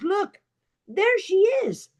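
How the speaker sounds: high-pitched acted spotting cry; storyteller voicing a high "look"; urgent calling out. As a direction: point someone out urgently, without shouting. Brother spots girl in river, acted.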